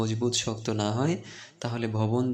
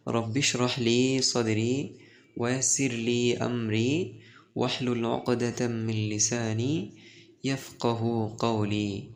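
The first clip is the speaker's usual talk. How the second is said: slow, measured recital of an Arabic prayer; prayer recitation. Acted. Teacher opens the class by reciting a prayer slowly. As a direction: intone the dua slowly and reverently.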